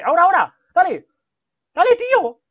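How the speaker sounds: high, loud urgent cheering; cheering shout. Real, not acted. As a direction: scream him on to strike now. Cheering teammate at key moment.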